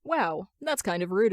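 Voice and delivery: plain reading voice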